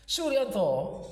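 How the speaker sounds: high-pitched shout, falling at the end; yelled name. A narrator's reading. Jelitang calling gaping Suryanto back to attention, high yell. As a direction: yell to wake a daydreamer.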